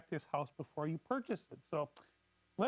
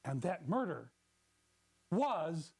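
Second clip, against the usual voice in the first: mysterious; 4 semitones lower than usual. Acted. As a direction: spin it like a ghost story. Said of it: "Incorporate mysterious elements".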